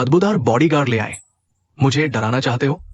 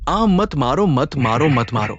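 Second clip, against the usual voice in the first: pleading no more, trailing off; panicked begging; slower than usual. Acted. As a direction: beg them to stop, voice sinking. Begging not to be hit.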